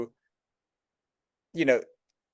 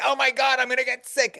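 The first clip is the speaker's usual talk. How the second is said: retold panic; 10 semitones higher than usual. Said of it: "And I was like".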